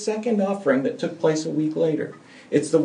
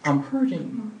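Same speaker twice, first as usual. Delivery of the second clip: pleading cry; 6 semitones higher than usual. Shown as a demonstration. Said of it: "this is the time to be able to say".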